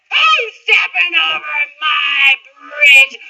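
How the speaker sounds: slow, loud booming troll; roaring troll. Acted. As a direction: roar it out slowly. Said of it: "roared the troll".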